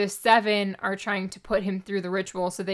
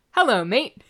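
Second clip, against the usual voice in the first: mock Australian; 3 semitones higher, 5 dB louder than usual. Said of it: "sounding like he's Australian".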